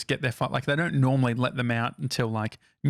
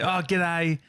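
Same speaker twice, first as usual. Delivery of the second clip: put-on Australian accent; 3 semitones higher than usual. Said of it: "I just put on my, like, Australian accent".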